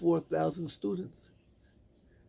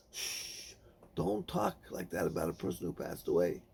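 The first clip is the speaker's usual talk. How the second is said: soft, breathy hush then low rebuke; 11 semitones lower, 8 dB quieter than usual. Acted. Rabbi Akiva hushes the townspeople cursing the dead, softly. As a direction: hush them gently but firmly.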